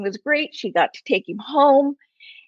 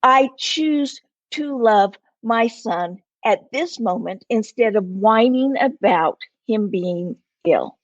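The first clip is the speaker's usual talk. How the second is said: slow steady resolve; slower than usual. Retold or imitated. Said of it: "She says".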